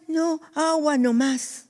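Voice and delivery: high firm refusal. Retold or imitated. The brother insisting on only water, high and slow. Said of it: "Y dice".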